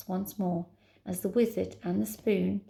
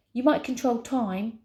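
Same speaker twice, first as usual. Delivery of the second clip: higher, forceful, contained yell; angry yell; 4 semitones higher than usual. Acted. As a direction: let anger fuel a raised voice. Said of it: "yelled Nine".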